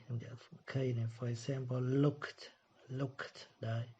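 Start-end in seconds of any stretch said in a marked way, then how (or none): 1.8-3.4 looked ending in a crisp K then T. Shown as a demonstration. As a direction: say looked with a sharp final T. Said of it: "có âm K này". (looked đọc đuôi thành âm T sau K)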